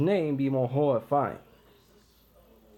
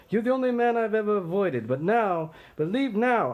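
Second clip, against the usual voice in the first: raised warning; 5 semitones higher than usual. Acted. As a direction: drive him back with your voice. Macbeth warns Macduff off.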